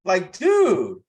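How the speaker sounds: bursting out to hammer the point home; exasperated shout. Real, not acted. Host shouting at viewers about networking, exasperated.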